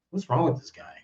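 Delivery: inner thought. Retold or imitated. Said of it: "in my mind".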